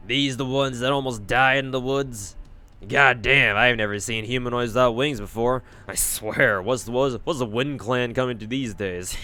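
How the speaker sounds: blunt villager sneering at the wingless strangers; scornful fairy villager. Acted. Villager mocking the wingless strangers, scornful. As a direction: scoff at the newcomers like a rough local.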